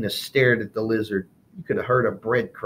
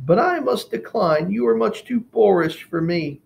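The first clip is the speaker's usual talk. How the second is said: cockroach voice; 10 semitones higher, 4 dB louder than usual. Acted. Martina refuses pig.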